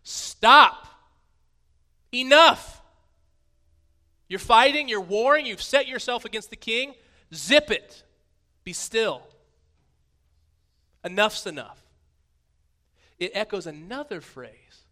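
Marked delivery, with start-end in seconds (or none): 0.0-11.8 booming, much louder and higher stern command; God silencing the nations, full-force shout. Acted. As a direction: roar it down at rebellious nations. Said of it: "It's talking to the nations".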